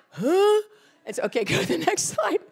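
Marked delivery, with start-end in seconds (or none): 0.1-0.6 much higher and louder, stunned; baffled huh. Retold or imitated. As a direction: mimic the kid's disbelief. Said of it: "And he's like".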